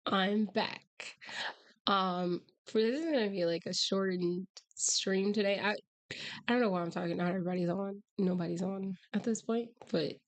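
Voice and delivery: hoarse, almost no voice; rasping through a lost voice; hoarse cry. Real, not acted. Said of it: "as you can tell, I have no voice".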